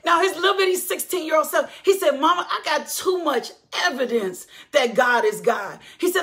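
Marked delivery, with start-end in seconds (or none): 2.2-5.8 son's declaration. Retold or imitated. Son's testimony quoted.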